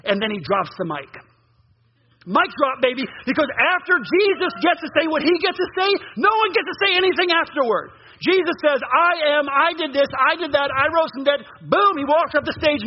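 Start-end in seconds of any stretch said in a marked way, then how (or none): 2.3-12.8 excited preaching. Acted. Excited climax of sermon.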